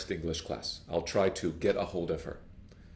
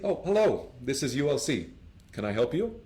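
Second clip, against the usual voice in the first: cheerful receptionist; 4 semitones higher than usual. Acted. Acted receptionist.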